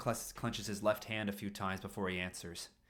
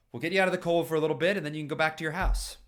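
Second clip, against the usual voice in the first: firm insistence; 7 semitones higher, 7 dB louder, faster than usual. Acted. Paul firmly insists.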